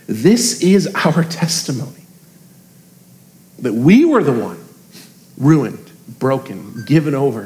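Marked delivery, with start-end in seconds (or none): none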